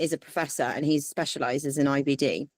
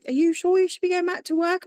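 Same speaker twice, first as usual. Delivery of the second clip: incredulous doctor; 13 semitones higher, 4 dB louder than usual. Retold or imitated. Doctor's doubtful question retold.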